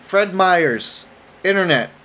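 slow, drawn-out mock announcement; big announcer delivery, words stretched out; announcement yell. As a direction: proclaim it slowly to the whole internet. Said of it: "yelling that like it's an announcement".

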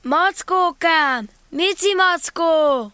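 slow plaintive call for a lost friend. Acted. Christopher Robin calling for the missing Pooh, slow and plaintive. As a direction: call out slowly, worried and forlorn. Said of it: "Kiáltott Róbert Gida panaszosan".

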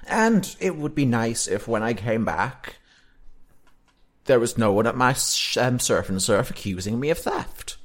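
chill beach surfer voice; surfer dude. Acted. GM voicing surfer NPC.

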